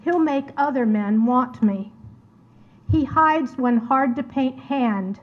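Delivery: measured dramatic monologue in verse, spoken as the painter's sister; poem recitation. Acted. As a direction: read it as verse, lingering between phrases. Reads her poem aloud.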